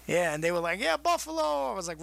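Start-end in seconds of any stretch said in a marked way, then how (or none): 0.8-1.7 mock crowd cheer.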